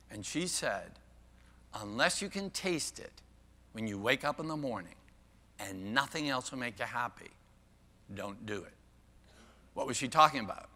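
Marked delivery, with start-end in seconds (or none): 1.7-8.7 soft, measured retelling with weight; hushed quoted advice. Retold or imitated. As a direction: let it sink softly to the end. Quotes Ingrid Bergman's advice.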